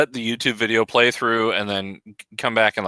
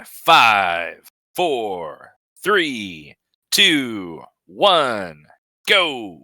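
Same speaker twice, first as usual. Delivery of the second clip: countdown; 3 semitones lower, much slower than usual. Shown as a demonstration. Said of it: "Shaggy's gonna give you a countdown".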